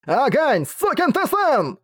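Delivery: a betrayed master cursing the dragon, enraged; enraged snarl. A narrator's reading. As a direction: spit the curse out in raw rage. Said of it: "прорычал Джарнак".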